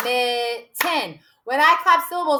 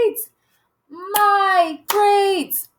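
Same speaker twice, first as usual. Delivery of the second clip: 1 modeled word for repeating; 8 semitones higher, much slower than usual. Shown as a demonstration. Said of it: "Can you say the word migrate?".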